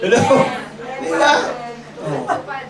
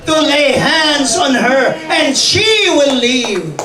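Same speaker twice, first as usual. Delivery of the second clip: desperate father's prayer; 3 semitones higher, 3 dB louder, slower than usual. Retold or imitated. Desperate father praying to Jesus.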